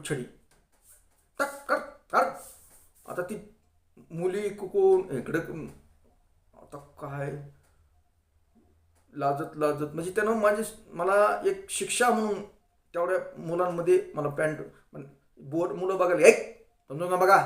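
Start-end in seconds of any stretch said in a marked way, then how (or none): 1.4-2.3 scolding teacher. Retold or imitated. 16.3-17.4 loud scolding teacher. Retold or imitated.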